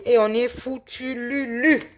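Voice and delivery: cheeky mock despair; playful dismay. Real, not acted. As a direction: laugh off the loss with a rhyme. Losing, playful rhyme.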